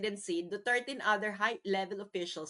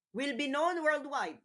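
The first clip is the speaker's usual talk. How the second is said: higher repeat; 6 semitones higher than usual. Shown as a demonstration. Vlogger repeating his point to viewers, higher and sharper. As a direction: repeat it pitched higher, punchy. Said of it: "repeats the phrase for emphasis".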